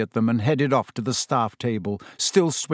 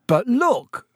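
laughing; 11 semitones higher, 4 dB louder than usual. A narrator's reading. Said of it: "said Ron, laughing".

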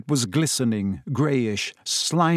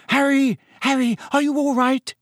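anxious calling; 12 semitones higher than usual. Acted. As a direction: call out to rouse a fainted friend. Friend calling Harry after Dementor attack.

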